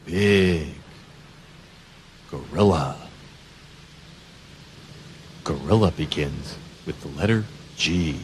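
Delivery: playful low gorilla read; deep gorilla voice. Shown as a demonstration. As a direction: drop down low like a big gorilla. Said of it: "gorilla voice for kids".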